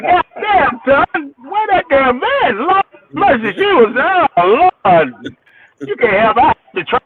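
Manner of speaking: high-pitched BB impression. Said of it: "He said".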